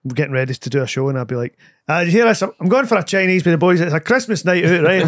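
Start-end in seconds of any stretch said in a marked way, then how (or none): 1.9-5.0 lightly put-on patter-merchant uncle; a hint of a blethering uncle. Shown as a demonstration. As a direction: do a chatty uncle voice, slightly lifted. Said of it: "It was just a voice I did".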